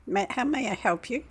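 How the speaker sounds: lightly imitated Indian call-centre accent; a hint of an Indian accent; mock Indian accent. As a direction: put on an Indian accent, politely. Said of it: "In their accent".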